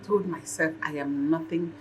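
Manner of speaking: soft, subdued admission; low-key, halting apology from a mother; remorseful confession. Acted. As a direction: confess gently with regret. Mother's remorseful confession to her children.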